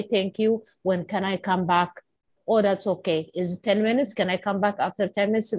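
polite and gentle, lightly voiced; nicely. Shown as a demonstration. How the colleague should have asked the cleaner, gently. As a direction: ask kindly, no edge at all.

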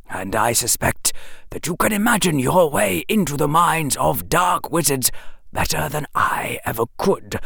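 put-on gentle, grave old wizard; wise old headmaster. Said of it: "Dumbledore said seriously".

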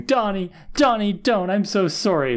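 high-pitched retold wailing apology; mild mock scream. Willow continues to cry, mild mock scream. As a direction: imitate desperate screaming, without real volume. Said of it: "And she's screaming".

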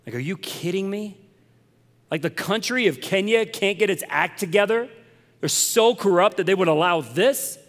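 recalling being angry, incredulous and worked up; retold anger. Preacher recalling anger at Kenya's corruption, indignant. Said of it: "man, I got angry".

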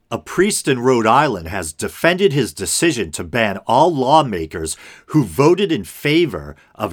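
article read aloud with lively emphasis; news read. Acted. Host reading a Newsweek story to listeners, news read. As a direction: read it out like a news item, key words lifted.

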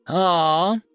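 mocking, childish sweetness; sickly sweet voice. Pixie Maharia mocking the intruders, sickly sweet. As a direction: tease them with fake sugar. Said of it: "came a sickly sweet voice".

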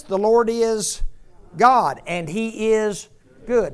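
high, loud, slowed proclamation; loud congregational call. Real, not acted. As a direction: proclaim it so the whole church joins in. Leading congregation in loud recitation.

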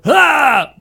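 short loud "Ah!" attack yell; loud high battle yelp; tennis grunt. Retold or imitated. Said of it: "half of them made noise before they attacked".

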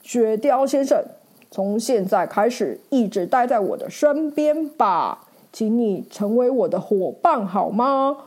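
thrilled, then asking a friend to stay; excited knight. Acted. Knight thanks the ferret, excited then heartfelt. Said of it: "骑士兴奋地说".

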